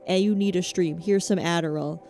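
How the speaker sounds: a hint of a hard-driving Whiplash teacher; ruthless J K Simmons coach. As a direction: push the streamer like a brutal mentor. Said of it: "I want him to be like".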